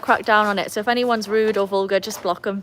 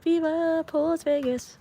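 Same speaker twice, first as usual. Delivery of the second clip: "Viva Paws Vegas" stretched slowly, higher; channel name announcement; 8 semitones higher, much slower than usual. Shown as a demonstration. To chat explaining her channel name, a slow higher show-style announcement. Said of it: "My channel's called Viva Paws Vegas".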